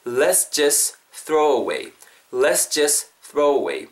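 "let's just throw away" flowing as "les-jes throw-away"; natural linking. Shown as a demonstration. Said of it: "다시 자연스럽게 하면은".

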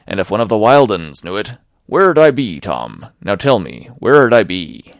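a lightly voiced old sea cook, coaxing and pressing; sly one-legged pirate begging a shipmate to join him; pleading pirate Silver.

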